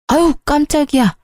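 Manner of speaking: a startled mother's gasp, pitched high. Acted. Mother startled when her son yells at her, a sudden surprised cry. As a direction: jump at the sudden shout.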